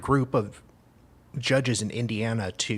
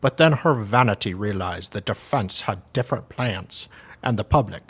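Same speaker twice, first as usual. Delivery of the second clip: lightly put-on Russian accent; amateur Russian-accented reading. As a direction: read it out with a mock Russian accent. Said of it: "I'm doing a Russian accent".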